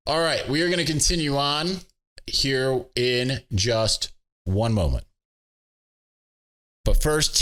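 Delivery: podcast host's upbeat sportsbook ad read. Acted. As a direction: sell the FanDuel promo like a radio spot. Sponsor ad read.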